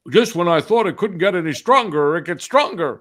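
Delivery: imitating an astonished student, loudly; amazed exclamation.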